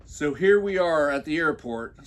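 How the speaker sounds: normal talking voice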